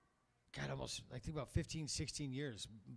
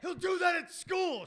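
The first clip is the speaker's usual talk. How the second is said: much higher, much louder slow scream; screaming sister; 10 dB louder, slower than usual. Retold or imitated. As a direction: scream it in panic, high and slow. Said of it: "She just screamed".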